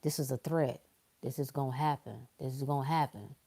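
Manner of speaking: a hint of a paranoid doomsayer; mock fearful voice. Imitating fearful people telling reality to prove them right. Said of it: "You keep saying to reality".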